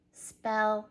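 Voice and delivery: "spelled" split into spell, then a separate "duh"; spelled with D sound. Shown as a demonstration. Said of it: "Add a D sound".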